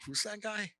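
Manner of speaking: high, soft curious question; Agnes asking. Retold or imitated. Agnes asking Jacques about the stranger, high hushed curiosity. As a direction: lift it up high and hush it.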